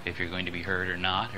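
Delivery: fairly quiet. Shown as a demonstration. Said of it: "Another one now is to be heard".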